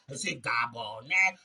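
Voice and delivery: ordinary talk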